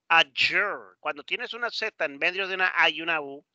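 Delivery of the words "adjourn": "Adjourn" with a strong English j sound in the middle. Shown as a demonstration. Teacher showing a Z pronounced like J, careful model. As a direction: lean on the j in "Adjourn". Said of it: "se pronuncia como J".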